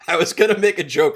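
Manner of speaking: laughing. Real, not acted. Laughs while speaking.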